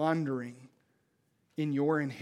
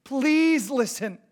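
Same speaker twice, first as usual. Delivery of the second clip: slow, higher begging please; pleading; 8 semitones higher, 6 dB louder, much slower than usual. Shown as a demonstration. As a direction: beg them to listen. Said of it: "urge means to beg and plead".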